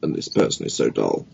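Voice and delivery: low, weary mock groan; bored groan. Speaker recalls sitting through dull events, bored. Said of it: "head in my hands thinking".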